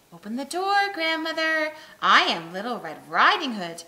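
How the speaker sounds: put-on a wolf faking a child's voice at the door; wolf calling out. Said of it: "the wolf knocked and cried".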